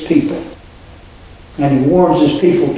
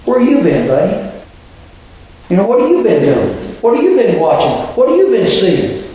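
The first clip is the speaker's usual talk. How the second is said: a sarcastic jab, pitched higher on the questions; 3 semitones higher, faster than usual. Retold or imitated. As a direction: needle him like he's been living under a rock. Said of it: "I hear sarcasm in the voice of Cleopas".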